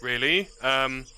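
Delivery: a nervous lord reluctantly agreeing; hesitant lord. Acted. Lord agrees to join the jungle expedition, stammering. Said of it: "It's like".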